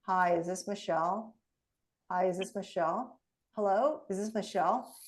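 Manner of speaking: dull, listless phone opener; flat bored greeting. Shown as a demonstration. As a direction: mumble it like you'd rather not call.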